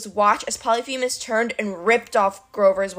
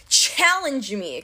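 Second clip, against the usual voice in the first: Clarice's voice; much slower than usual. Acted. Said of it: "Clarice's voice".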